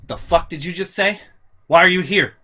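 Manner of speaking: loud, baffled yelling at an unwanted guest; outraged yelling. Retold or imitated. Mom and me yelling at sister who turned up sick. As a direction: fire back why, why, why in disbelief.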